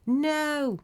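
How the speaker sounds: high, stretched cry of refusal; a contained scream, pitched high. A narrator's reading. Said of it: "Margaret screams".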